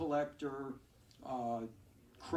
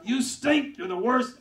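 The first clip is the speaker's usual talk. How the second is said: "You stink" yelled much higher and louder; mock yell; 8 semitones higher, 13 dB louder, slower than usual. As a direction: heckle like an angry crowd. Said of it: "They're yelling".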